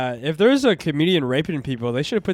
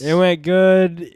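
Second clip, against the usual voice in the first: deadpan understatement; 4 dB louder, slower than usual. Real, not acted. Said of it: "You can tell from the tone of my voice".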